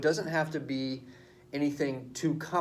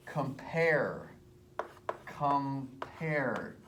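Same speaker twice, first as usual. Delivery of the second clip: "Compare" drawn out, second syllable "pare" stressed; 4 dB quieter, much slower than usual. Shown as a demonstration. Teacher sounds out an iamb, "Compare" stressed on second syllable. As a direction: pull "Compare" apart, leaning on "pare". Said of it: "The accent is on the second syllable".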